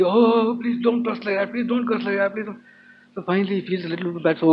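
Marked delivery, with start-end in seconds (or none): 0.0-2.6 pleading. Retold or imitated. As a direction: plead in a repeated, mock-beseeching singsong. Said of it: "attendants in Yaksha plead".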